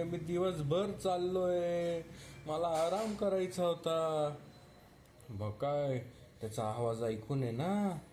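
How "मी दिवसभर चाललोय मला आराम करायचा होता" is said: hammed-up gentle tiger sob for a small child; tiger crying. Tiger complaining to the child that his sleep was ruined, mock crying. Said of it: "कसा रडायचा, बच्चू, tiger? ओ, असं".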